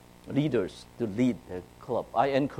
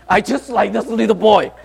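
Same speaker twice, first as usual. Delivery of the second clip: higher, louder, through laughter; laughing; 9 semitones higher, 9 dB louder than usual. Real, not acted. Preacher laughing while picturing himself as a scared boy. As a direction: laugh at your scared little self.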